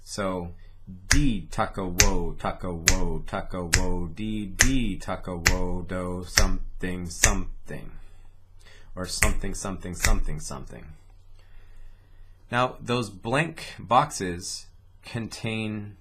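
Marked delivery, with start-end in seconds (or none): 1.1-10.8 louder chant with D and wo punched; accented "D taka wo" chant; emphasis on capitals. Shown as a demonstration. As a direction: hit the capitalized syllables hard. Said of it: "the capitalized syllables get the emphasis".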